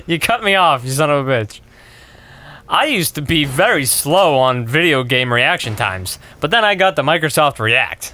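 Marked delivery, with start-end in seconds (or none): 2.7-8.1 mock testimonial. Player gives a fake product testimonial, measured mock sincerity. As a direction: recite it like an infomercial customer.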